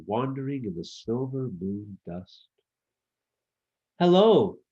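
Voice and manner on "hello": high, loud call from above. A narrator's reading. Gnome on his pancake calling down to the elephant, loud call. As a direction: call out to someone far below. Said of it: "called down Jerome Gnome".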